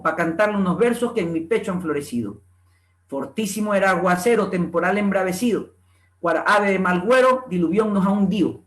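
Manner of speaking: lightly voiced Montubio reciter, R for L and dropped D's; coastal Montubio dialect. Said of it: "replicar cómo el Montubio del Litoral canta sus versos".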